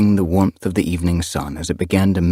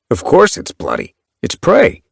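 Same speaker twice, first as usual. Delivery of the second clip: impatient cat; 11 semitones higher, 3 dB louder than usual. A narrator's reading. Tigerheart retorts to kittypet.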